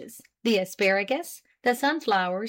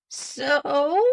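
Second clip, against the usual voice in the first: pleased surprise; 6 semitones higher than usual. A narrator's reading. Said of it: "with an air of pleased surprise".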